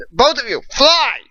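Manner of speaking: high, loud desperate order, peaking on fly; shouted order. Acted. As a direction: yell at them to flee. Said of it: "Hawk shouted to us".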